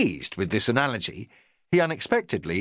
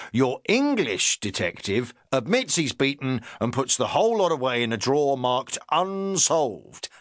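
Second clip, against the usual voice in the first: a touch of a self-important inspector; the inspector talking down to his sergeant, lightly pompous. Acted. Inspector continues his lecture.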